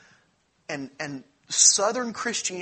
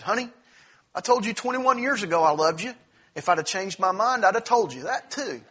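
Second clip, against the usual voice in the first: bluff husband; 5 semitones higher, 6 dB louder than usual. Retold or imitated. Husband answers in joke story.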